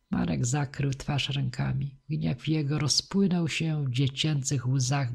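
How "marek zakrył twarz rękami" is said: ordinary delivery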